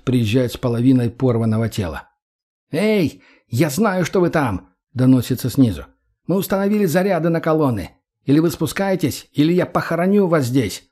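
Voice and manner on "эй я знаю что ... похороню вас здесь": raised, higher call from below; enemy leader shouting a threat up the lift shaft. Acted.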